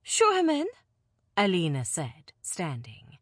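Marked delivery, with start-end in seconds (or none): 0.0-0.7 higher, louder lady's order; commanding. Acted. Alina ordering the guard to admit the man, commanding. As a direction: command it like a noblewoman. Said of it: "at her most commanding".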